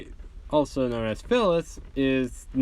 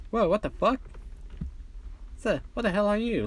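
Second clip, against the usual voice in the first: startled shout; 7 semitones higher, 3 dB quieter, faster than usual. Acted. Shocked reaction to robot quirk.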